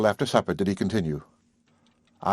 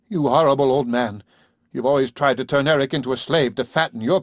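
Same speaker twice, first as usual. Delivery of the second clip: higher, louder furious woman, strongest on go tell my husband; furious outburst; 5 semitones higher, 3 dB louder than usual. Acted. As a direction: hurl it at the old man in fury. Carol furious at the father.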